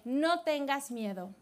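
soft, slow calm; calm reassurance. Acted. Elisha answering his scared servant, softly reassuring. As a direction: settle his fear gently. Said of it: "le contestó Eliseo".

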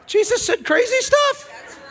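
high, loud and slow, half-laughing; loud, laughing preacher call; laughing, high exclamation. Real, not acted. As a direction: preach it with comic amazement. Preacher builds big comic line.

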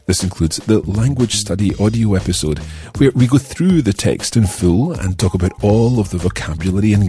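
upbeat promo announcer read. Acted. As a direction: sell the premium course brightly. Premium course advert read.

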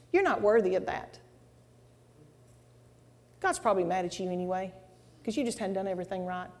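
lightly voiced accuser, kept soft; quiet, needling put-down; devil's accusing voice. Devil taunting her about her calling, softly accusing. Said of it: "the devil would make it really loud".

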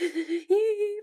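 high, brief imitated whimper; half-laughing mock cry; weird cry. Happy for them but sad for herself, weird mock cry. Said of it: "it's, like, a weird cry".

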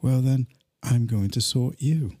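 deliberate, spaced-out mock threat; mock menace. Threatening to sort out local people, mock menace. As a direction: deliver a playful ultimatum, unhurried.

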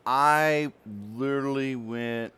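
bursting into loud laughter mid-sentence; words breaking up in real laughter; cracking up. Real, not acted. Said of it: "could not control myself".

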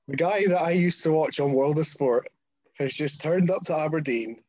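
exasperated, retold incredulity; dismayed disbelief. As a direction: list the indignities as if you can't believe it. His dismayed reaction to the broken case.

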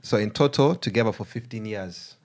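put-on Ugandan accent. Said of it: "I'm gonna read it in Ugandan accent".

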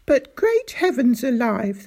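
loud outraged exclamation; shouted. Acted. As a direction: explode with outrage. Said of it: "the little doctor shouted".

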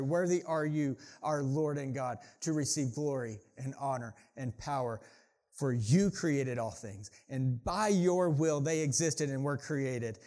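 weighty, emphatic Bible reading; solemn public reading; scripture reading. Acted. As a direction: proclaim the praise with deliberate stresses.

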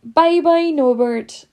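high, tearful sobbed farewell; sobbing goodbye. Acted. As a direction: choke it out through tears. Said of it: "Hagrid sobbed".

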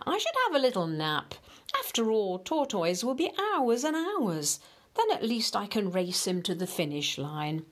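smug musing. Acted. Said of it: "thought Hare".

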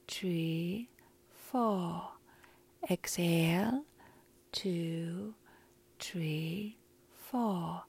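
slow, drawn-out counting of breaths. Shown as a demonstration. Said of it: "So I will count to four".

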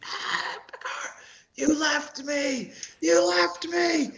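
high, slow, moaning zombie wail; zombie gasping. Acted. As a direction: gasp it out like a rotting undead friend. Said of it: "like, gasping and just".

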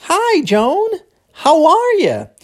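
high, swooping greeting to a friend; exclaiming and asking. Acted. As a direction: greet "Joan" high, half exclamation, half question. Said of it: "exclamando e perguntando ao mesmo tempo".

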